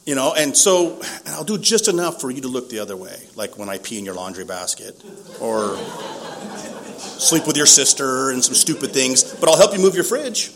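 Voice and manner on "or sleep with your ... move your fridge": louder and higher, laughing through the words; sheepish laughing list. Real, not acted. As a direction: laugh it off while confessing.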